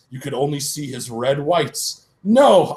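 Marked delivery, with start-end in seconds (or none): 2.2-2.7 high, loud cry of no; hammed-up cry of no; alarmed shout. Runs up in alarm.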